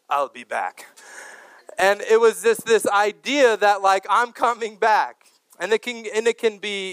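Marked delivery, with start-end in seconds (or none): 0.1-0.9 deep mock German-accented cyborg voice; Terminator. Kids getting off the bus tell the driver, Terminator impression. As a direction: imitate the film hero's low catchphrase delivery. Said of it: "we'd say to the bus driver".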